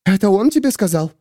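suspicious question. A narrator's reading. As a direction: demand how he knows.

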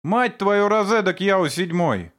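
high, loud furious swearing; furious curse. A narrator's reading. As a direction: spit the curse at Yao. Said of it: "выругался я". (яростная брань)

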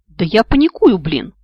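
loud, high panicked outburst; panicking. A narrator's reading. Girl hanging in the shaft, loud panicky outburst. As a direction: near hysteria, blurting out. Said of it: "как подкатывает истерика".

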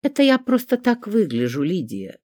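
put-on indignant old lady correcting her; trained indignant voice. A narrator's reading. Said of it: "хорошо поставленным голосом". (поставленным голосом, слегка возмущённо)

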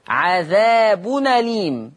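عذاب أليم run together as "adhaabu-naleem"; naql, hamza dropped. Shown as a demonstration. Teacher shows Warsh's naql, joined "adhaabunaleem" for عذاب أليم. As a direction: carry the nun straight into أليم without a glottal stop. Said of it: "يقرأ هكذا ورش بالنقل".

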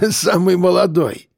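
put-on drunkard's amused guffaw, drawn out. A narrator's reading. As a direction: tease with a boozy chuckle. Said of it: "заржал алкаш".

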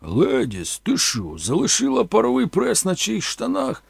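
a boss yelling from inside, rising to a high shout; loud voice. Acted. Laundry boss shouting at mama, angry call. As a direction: call out angrily across the shop. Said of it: "гучний голос долинув".

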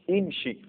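امشي opening on "i": imshii; kasra on hamza. Shown as a demonstration. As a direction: start امشي with a clear "i". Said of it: "يمشي مكسور". (امشي بكسر الهمزة)

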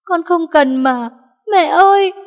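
high wailing cry; loud crying. Acted. Daughter refusing the necklace, wailing loud and high. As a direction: wail through tears. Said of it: "Hà Vân càng khóc to".

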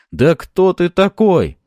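loud, high, drawn-out challenge; angry shout. A narrator's reading. Fyodor shields the lady and confronts Boyarsky, angry shout. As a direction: shout the question in outrage.

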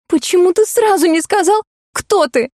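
high, half-sobbing plea; tearful question. A narrator's reading. Heroine reproaches the stranger, high tearful voice. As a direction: ask it close to tears. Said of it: "всхлипнув".

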